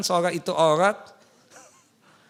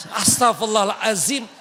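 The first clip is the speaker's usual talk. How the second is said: shocked exclamation; 3 semitones higher, 3 dB louder than usual. Real, not acted. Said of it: "Maaf ya Bu".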